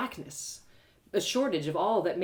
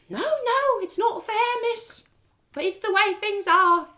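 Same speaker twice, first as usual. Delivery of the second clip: put-on higher, louder weary old beggar; 14 semitones higher, 6 dB louder, slower than usual. Beggar woman explains guards to narrator, resigned.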